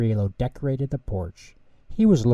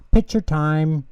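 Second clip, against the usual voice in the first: louder call from inside; shout; 5 semitones higher, 7 dB louder than usual. A narrator's reading. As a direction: call everyone for the photo. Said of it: "yelled Shouter Tutter".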